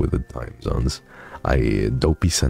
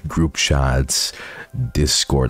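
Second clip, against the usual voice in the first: raised teasing callout; mock knowing; 2 semitones higher than usual. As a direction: playfully let them know you're onto them.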